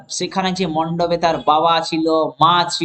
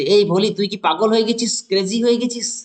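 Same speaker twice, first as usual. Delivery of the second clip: higher, scolding father; mock rage at a daughter; angry father shouting; 4 semitones higher than usual. Father scolding daughter at wedding, hammed-up anger. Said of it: "রেগে যেয়ে চিৎকার করে বলছে".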